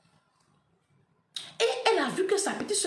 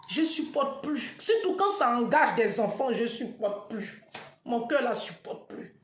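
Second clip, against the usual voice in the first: slow exhausted fading to a whisper; worn out, despairing. Real, not acted. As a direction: let the voice give out. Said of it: "je n'en peux plus". (épuisement, la voix s'éteint)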